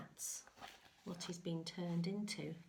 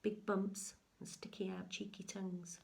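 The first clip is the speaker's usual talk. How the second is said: whisper. Real, not acted. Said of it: "whispered aside".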